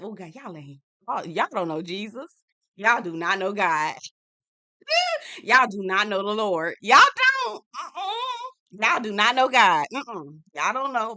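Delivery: mock church-lady scolding; scandalized preaching. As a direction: shake your head at the sinners. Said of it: "I said".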